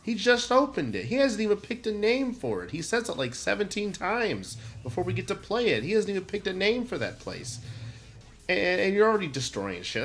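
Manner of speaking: heated rant about a ruined shop; worked-up rant. Real, not acted. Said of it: "I'm getting mad just thinking about it".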